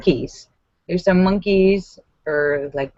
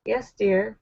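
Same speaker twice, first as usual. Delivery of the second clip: soft, restrained motherly answer; mom voice; 6 dB quieter than usual. Acted. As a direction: quietly humor the child. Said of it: "Awkward conversations with your children".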